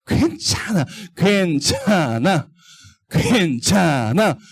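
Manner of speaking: slow, coaxing little voice; coaxing Satan. Acted. Teacher voicing Satan tempting children, slow and coaxing. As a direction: lure them in gently, slowly. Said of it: "마음속으로 막 속삭여요".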